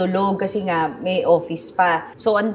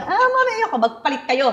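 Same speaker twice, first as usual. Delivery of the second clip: high, whining start that settles; mock-whiny no; whiny refusal; 7 semitones higher than usual. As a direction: protest and push the blame. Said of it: "Catherine refusing mom".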